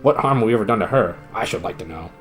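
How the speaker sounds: burst out. Acted. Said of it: "burst out".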